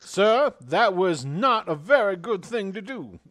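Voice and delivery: high, loud offended voice; indignant character. Acted. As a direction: scold him in a high huff. Character scolds the prankster.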